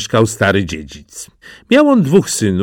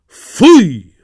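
disgusted; 8 semitones higher, 7 dB louder than usual. Acted. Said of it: "wzdrygnęli się bracia".

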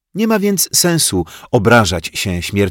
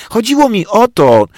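flustered; 7 dB louder than usual. A narrator's reading. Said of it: "zmieszał się Grześ".

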